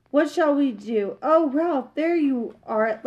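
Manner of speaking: lightly flustered, slow, rising mother mouse; agitated mother. Acted. Mother mouse fretting to Ralph, mildly agitated. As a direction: fret over the scattered family. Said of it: "so agitated she could not tell".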